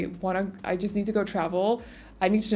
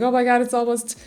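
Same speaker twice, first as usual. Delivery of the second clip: excited gushing; 3 semitones higher, 7 dB louder than usual. Retold or imitated. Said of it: "I just read a lot of".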